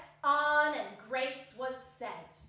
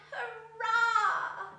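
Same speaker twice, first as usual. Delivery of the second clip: feeble cry; 7 semitones higher, 4 dB louder than usual. Acted. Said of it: "feebly cried".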